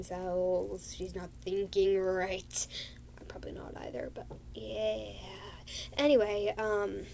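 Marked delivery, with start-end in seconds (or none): 3.2-5.1 soft unvoiced whisper of a self-joke; whispered aside. Real, not acted.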